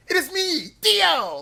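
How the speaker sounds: high, loud hammed-up villain cry; Dio impression. Streamer quoting the villain's grand entrance, hammed up. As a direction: belt it out like a posing anime villain. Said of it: "Like, stuff like that".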